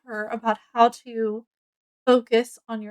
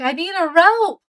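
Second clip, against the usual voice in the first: mild mock yell; 5 semitones higher, 3 dB louder than usual. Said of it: "then she yells down".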